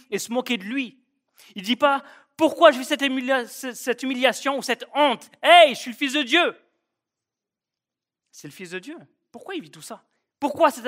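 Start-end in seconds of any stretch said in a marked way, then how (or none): 1.5-2.0 emphatic. Real, not acted. Preacher building to the quote. 2.4-6.6 high, loud protesting questions; hammed-up complaint of a wronged man; mock outrage, voice thrown high; indignant outcry. Imagined complaint Jesus never made.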